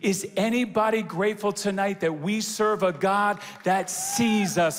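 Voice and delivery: loud, rallying church preacher; rousing preaching. Real, not acted. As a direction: whip the congregation into applause. Rallies the congregation.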